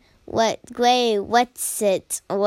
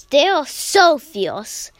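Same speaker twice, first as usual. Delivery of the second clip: dramatic emphasis; 3 dB louder than usual. Acted. Kitten describing fierce clan.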